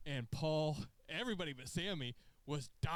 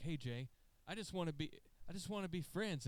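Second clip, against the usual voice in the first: higher, pleading peace offer; mock pleading; 5 semitones higher than usual. Sami pleading with Jey for friendship. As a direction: play the peacemaker begging to be friends. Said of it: "and he's like".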